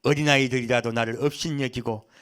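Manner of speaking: measured, even reading of Job's lament; scripture reading. A narrator's reading. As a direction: read the passage out formally and steadily. Reads scripture aloud.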